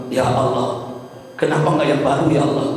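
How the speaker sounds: restrained imitation of dying murmurs; retold delirious plea. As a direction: plead it gently as the dying husband. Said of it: "suamiku meracau".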